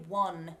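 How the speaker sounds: "won" with a short O, as in England; English dialect vowel. Shown as a demonstration. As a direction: rhyme "won" with "on". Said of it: "a dialect of England".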